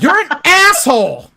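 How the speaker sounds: high, loud, laughing through the insult; half-laughing mock scolding; wife calling him an asshole, high and laughing. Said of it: "she's like".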